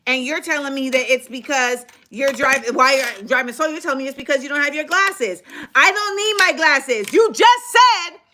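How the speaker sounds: stern tone. Retold or imitated. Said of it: "in a stern tone".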